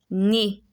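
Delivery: "Né" with E Z said as ay; French é sound. Shown as a demonstration. Teacher repeats the word after the rule, careful French pronunciation. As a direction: say "Né" ending in é, no Z. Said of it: "The E Z has an A sound".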